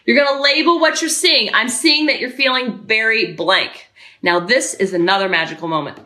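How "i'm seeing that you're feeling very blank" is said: slow, level labeling; composed, detached observation; steady parent, taking time over each word; calm validating parent. Shown as a demonstration. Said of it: "So you stay calm".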